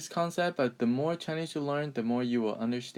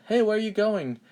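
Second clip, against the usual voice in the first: high, louder mock hail to a passer-by; raised-pitch acted greeting; calling out a question; 10 semitones higher, 5 dB louder than usual. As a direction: act out hailing someone with a curious question. Acted question from long-ago people.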